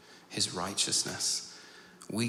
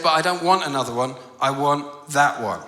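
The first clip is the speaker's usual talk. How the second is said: put-on insistent little girl; 2 semitones higher, 7 dB louder than usual. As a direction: imitate an upset child digging in. Upset little girl insisting, retold.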